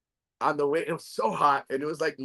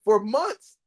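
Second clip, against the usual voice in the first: wife's voice, high and drawn out slowly; wife insisting on rice and beans, slow and high; mock wife; 10 semitones higher, slower than usual. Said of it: "She goes, she goes".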